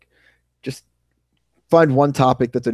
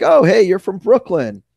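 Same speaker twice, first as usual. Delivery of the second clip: drawn-out, louder New York greeting; retold friendly hail in a New York accent; 4 semitones higher, 5 dB louder than usual. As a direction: greet a fellow New Yorker in their accent. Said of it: "You just sounded so New York".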